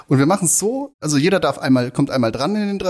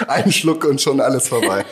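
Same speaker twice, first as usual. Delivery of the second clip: laughing; 3 dB louder than usual. Real, not acted. Joking after first sip.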